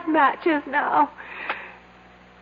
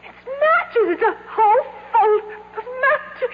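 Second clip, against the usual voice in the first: higher, half laughing, half crying with relief; laughing through tears; 9 semitones higher, slower than usual. Acted. Trapped wife to her husband, laughing and crying with relief. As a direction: break into relieved laughter that catches like a sob. Trapped woman finds matches, overjoyed.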